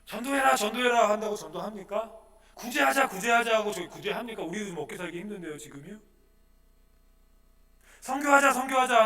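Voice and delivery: high, chanting nag; mock exhortation. Pastor mimicking empty calls to evangelize, mock nagging. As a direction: parrot the tired church slogans.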